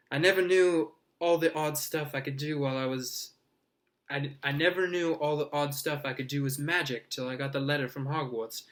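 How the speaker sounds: put-on excited young boy, quick and bright; eager boy voice. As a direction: gush like an awed first-year. Colin's eager voice.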